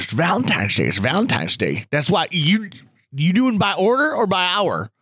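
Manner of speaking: lightly voiced old-timer quizzing a colleague; a hint of a blustery old man; Gramps' voice. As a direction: imitate a grandpa stating the obvious. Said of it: "Gramps Grant's talking like this".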